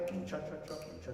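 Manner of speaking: rote orchestral cha-cha vamp; mechanical oom-pah. Shown as a demonstration. Coach shows how orchestra should not play, mechanical oom-pah. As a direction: softly chant a routine accompaniment. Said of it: "not to play".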